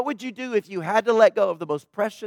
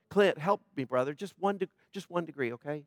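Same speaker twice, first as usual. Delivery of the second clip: soft request; 3 semitones lower, 10 dB quieter than usual. Real, not acted. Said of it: "Am I the only one that is shivering".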